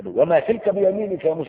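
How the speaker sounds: a grand, resounding address; solemn divine call. Shown as a demonstration. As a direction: call out to Moses with awe. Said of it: "يقوم يأنس".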